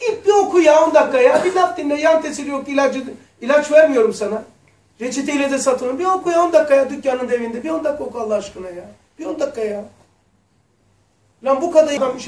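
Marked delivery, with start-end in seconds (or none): 0.1-9.8 earnest pleading. Real, not acted. Pleading audience to read.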